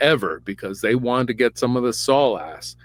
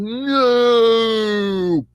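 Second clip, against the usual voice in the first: high, long drawn-out "no"; mock dying cry; 10 semitones higher than usual. Storyteller as Saul hit by an arrow, hammed-up cry. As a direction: stretch it out like a slow-motion death.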